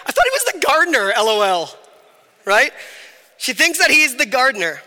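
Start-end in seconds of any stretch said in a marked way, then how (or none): 0.1-1.8 giddy storyteller pitched up, dropping at the end; Mary retelling it. Retold or imitated. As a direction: play her laughing it off to friends. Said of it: "imagine later Mary's telling".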